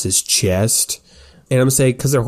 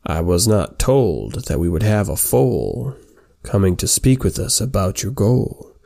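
smiling centaur chief; 2 semitones lower than usual. Acted. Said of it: "gives a little smile and he says".

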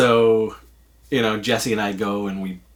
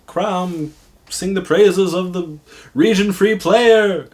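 mock exalting; 8 semitones higher, 4 dB louder, slower than usual. Mock hymn of praise to player.

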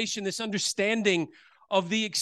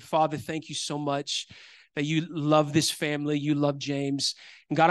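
simple prayer; 4 semitones lower than usual. Retold or imitated. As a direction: pray it simply and tenderly. Retold prayer over James' foot.

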